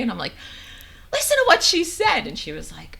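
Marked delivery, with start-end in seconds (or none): 1.1-2.3 high-pitched mock angry cry; retold tearful, indignant wail. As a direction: imitate crying angrily to your daughter, voice way up high. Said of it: "that angry cry".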